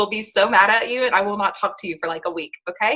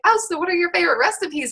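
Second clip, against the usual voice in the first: imitating a customer; 9 semitones higher, faster than usual. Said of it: "when people are like".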